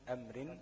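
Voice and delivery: أمر recited as amrin; tanween on أمر. Shown as a demonstration. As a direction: end أمر on a kasra tanween, "rin". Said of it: "راء مكسورة بالتنوين". (نطق أمر بتنوين الكسر)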